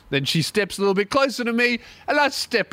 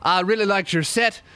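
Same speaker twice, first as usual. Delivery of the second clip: light imitated Irish accent; friendly bloke with a hint of Irish accent. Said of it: "he was Irish too".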